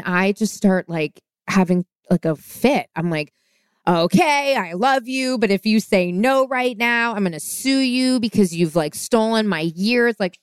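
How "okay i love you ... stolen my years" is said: higher, rushed, half-joking panic; frantic proposal. Retold or imitated. Nervous proposer blurting to her girlfriend, in higher frantic panic. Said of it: "Oh, no".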